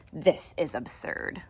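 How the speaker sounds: slow, disdainful; grumpy. Acted. Grumpy neighbour scoffing at the fuss, slow. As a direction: say it with a sniff. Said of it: "She looks a little grumpy".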